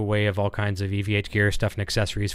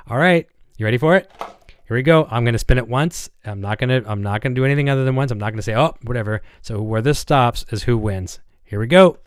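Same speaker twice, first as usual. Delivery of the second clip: hyped giveaway announcement; 5 dB louder than usual. Real, not acted. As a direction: build up the suspense, then crow the winner. Spinning wheel, announcing contest winner.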